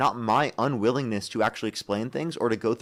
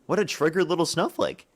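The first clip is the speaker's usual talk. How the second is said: higher, slower mocking jab; taunting sneer; 6 semitones higher than usual. Real, not acted. Debater taunts his rival on stream, slow higher sneer. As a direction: drag it out to belittle him.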